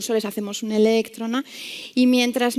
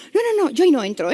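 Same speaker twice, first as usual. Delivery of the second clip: higher, agitated refusal; anxious refusal; 5 semitones higher, 3 dB louder than usual. Retold or imitated. Frightened nurse refuses to enter the room, anxious refusal. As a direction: imitate a nurse too scared to go in. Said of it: "con un ataque como de ansiedad".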